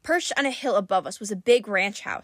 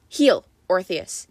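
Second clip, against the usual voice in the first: firm command; 4 dB louder, slower than usual. Acted. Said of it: "he told the dog".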